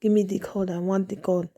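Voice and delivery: lightly imitated African-sounding accent, "the" as "dee"; a hint of his African accent on the demand. Man insisting after she said no, lightly imitated African accent. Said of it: "he was like".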